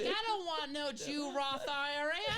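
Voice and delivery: put-on high, loud, slow caricatured Black American accent. Irishman refusing the IRA, in a Black American accent. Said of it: "can you do a black accent of someone".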